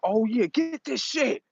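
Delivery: high, slow, mocking dark mode. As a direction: gloat slowly like the dark side waking. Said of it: "Dark mode come out".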